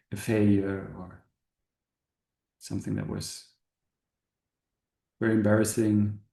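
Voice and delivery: calm guide, long pauses between short phrases; spacious meditation voice, settling at phrase ends; guided meditation. Acted. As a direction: gently lead an inward contemplation, unhurried. Leads a meditation.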